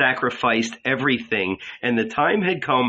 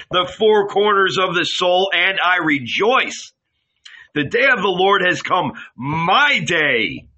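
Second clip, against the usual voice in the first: ecstatic prophecy; 3 semitones higher than usual. Acted. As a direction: proclaim the fire with rising joy. Jesus's fiery prophecy.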